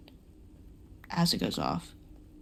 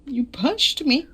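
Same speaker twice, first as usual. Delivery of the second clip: slow whispered complaint; breathy mock hurt whisper; 6 semitones higher, slower than usual. Real, not acted.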